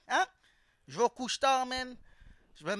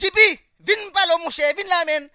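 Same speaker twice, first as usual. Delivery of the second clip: higher, louder call across the gym; 5 semitones higher, 9 dB louder than usual. Retold or imitated. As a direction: hail your buddy from across the room. Calling a friend at the gym. (appel fort à un pote au gym)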